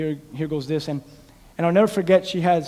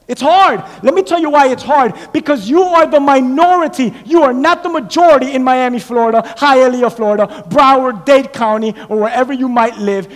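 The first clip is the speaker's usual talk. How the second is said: raised voice, hammering the hard truth; impassioned preaching; 8 semitones higher, 12 dB louder than usual. Real, not acted. Preacher telling Christians why staying loyal is hard, impassioned preaching. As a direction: preach it firmly to the congregation.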